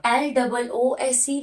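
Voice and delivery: letters spelled out slowly, one by one; slow spelling out. Shown as a demonstration. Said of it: "loose का मतलब ढीला".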